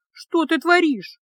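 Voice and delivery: high, slow, shocked hiss. Acted. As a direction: hiss it out in alarm. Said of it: "прошипела она".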